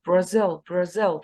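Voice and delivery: Brazil with the stress on -ZIL, the second syllable. Shown as a demonstration. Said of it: "The stress is on the second syllable".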